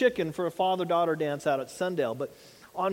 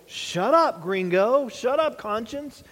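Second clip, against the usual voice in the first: brushing off conscience; 4 semitones higher, 4 dB louder, slower than usual. Retold or imitated. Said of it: "we go in there and go".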